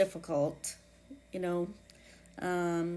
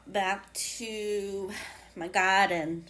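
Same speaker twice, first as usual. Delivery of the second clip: New England accent; 2 semitones higher, 3 dB louder, much slower than usual. Real, not acted. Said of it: "That's my New England accent".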